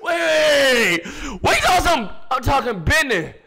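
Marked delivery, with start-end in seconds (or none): 0.0-1.4 shouting wait. Real, not acted. Streamer stops the song. 1.4-2.1 loud, higher, disbelieving; incredulous shout. Real, not acted. Streamer yelling at the rapper on screen, incredulous.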